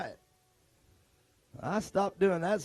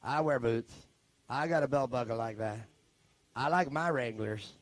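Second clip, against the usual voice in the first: lower, grumbling defensive tough guy; a touch of hurt pride in a lower voice; mock offended redneck; 9 semitones lower, 5 dB quieter than usual. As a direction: play the offended chew-spitting cowboy, voice dropped low. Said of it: "They're like".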